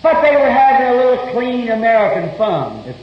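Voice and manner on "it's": slow, drawn-out shout, higher; preaching shout. Real, not acted. Preacher condemning a drunken party, slow shout. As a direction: hammer each word of the condemnation.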